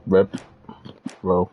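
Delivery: talking while crunching chips. Real, not acted. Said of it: "Sorry, I'm crunching".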